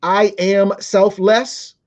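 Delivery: put-on slow, drawn-out child's claim; mocking child. Mocking the child who comes home saying it slowly. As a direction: mimic the kid's pious tone, stretched out. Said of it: "don't come in this house talking about".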